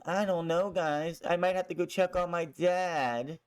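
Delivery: a touch of whine, lightly imitated; lightly mock a whining son; whiny Dominic. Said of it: "in the most whiny way".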